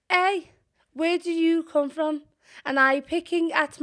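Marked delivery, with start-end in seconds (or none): 0.1-2.2 put-on much higher, louder child's call; little boy calling. Ginger boy calling out to her in the street. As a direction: shout it like a curious kid. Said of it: "a little ginger boy down the road".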